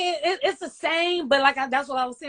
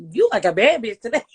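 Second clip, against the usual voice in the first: sassy, flamboyant compliment, lightly voiced; a hint of a flamboyant bitch compliment; gay way; 6 dB louder than usual. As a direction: camp it up a little, like a gay friend. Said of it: "say it in a gay way".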